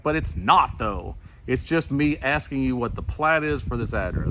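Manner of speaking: retold arguing, punching "not"; acted-out frustrated objection; exasperated protest. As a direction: push back insistently at the clerk. Acted argument with a clerk.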